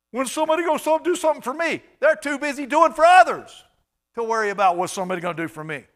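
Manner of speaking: high, loud mock whine of self-pity; hammed-up poor-me complaint; self-pitying inner voice. Preacher mocking a self-pitying churchgoer, high and whiny. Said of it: "wondering about".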